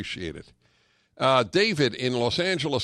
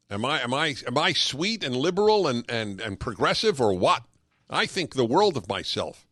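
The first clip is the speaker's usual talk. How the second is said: sarcastic mock activist. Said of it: "That's what they think".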